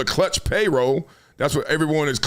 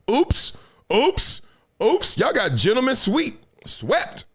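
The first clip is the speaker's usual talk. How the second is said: mocking oops; 4 semitones higher, slower than usual. Mocking the swept team.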